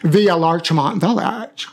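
put-on Calabasas accent, drawn out at the end. Shown as a demonstration. Comedian showing the accent they sometimes use, Calabasas accent. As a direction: do a mock Calabasas-via-Larchmont accent, stretching the last words. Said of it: "sometimes I speak in this accent".

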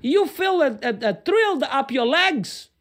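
hammed-up swooning pundit in English; mock Chris Matthews. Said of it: "el hombre que dice que le sube un calambre". (imitación exagerada de un presentador embelesado)

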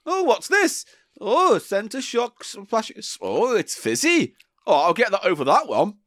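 excited shopper. Retold or imitated. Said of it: "you go".

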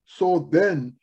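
deliberate, emphatic Bible reading; scripture reading. Real, not acted. Preacher reading the letter to Laodicea, solemnly proclaiming. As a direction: proclaim the passage in measured phrases. Reads scripture aloud to congregation.

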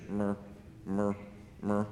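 thin, weak little "mer" sounds; skinny cow bleat. Shown as a demonstration. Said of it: "like that".

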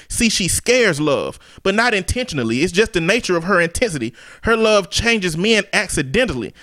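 measured, rhythmic slam poetry read; spoken word poetry. Shown as a demonstration. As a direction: perform it as spoken word verse. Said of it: "I'm gonna do it, like, spoken word style".

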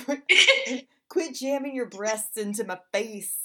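laughing through a mock complaint. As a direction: giggle out the protest. Acted quitting quote, laughing.

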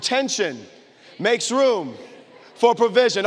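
emphatic, punchy delivery in separated chunks; with attitude. Shown as a demonstration. Preacher has the crowd repeat the line, with attitude. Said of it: "Say it again with some attitude".

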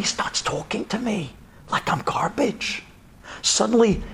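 ordinary talk, nothing marked

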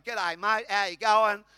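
hammed-up mock Aussie greeting; fake Australian accent. Americans trying Australian at the preacher, mock Australian accent. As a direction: imitate a tourist badly faking an Australian accent. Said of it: "trying to be an Australian".

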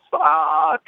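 high, drawn-out re-enacted yell; retold screamed curse. Patient under the surgeon's finger, re-enacted screamed swearing. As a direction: howl the curse as if in pain. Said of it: "I'm screaming".

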